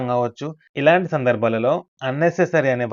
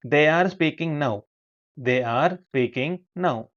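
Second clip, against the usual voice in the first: slow model sentence; much slower than usual. Shown as a demonstration. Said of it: "స్పీకింగ్".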